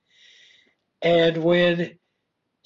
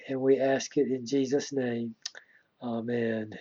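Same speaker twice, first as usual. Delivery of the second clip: pastoral prayer; 3 semitones lower than usual. Acted. Pastor praying over his flock, reverent and hushed. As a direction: pray humbly over the congregation. Pastor prays before the sermon.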